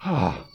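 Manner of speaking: a lightly acted weary exhale; mock deep sigh. Preacher acting Pilate's reaction to Jesus, mock sigh. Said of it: "Deep sigh".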